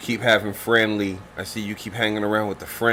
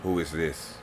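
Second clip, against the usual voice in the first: lower, gruff curmudgeon; curmudgeon character voice; 5 semitones lower, 8 dB quieter, slower than usual. Acted. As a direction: play the grumpy old warrior. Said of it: "So she goes".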